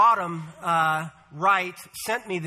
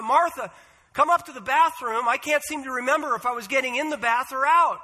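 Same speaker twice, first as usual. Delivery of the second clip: calling out; 5 semitones higher than usual. Acted. Calling her sister upstairs.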